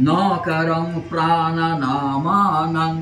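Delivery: syllable by syllable, very slow; staccato. Shown as a demonstration. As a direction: chop each syllable apart slowly. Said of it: "আমি কেটে কেটে বলছি, তোমরা বলো".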